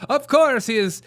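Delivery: hammed-up parody of a Southern accent; A O C's Southern accent. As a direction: lay the fake Southern twang on thick. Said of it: "What the frick is this accent?".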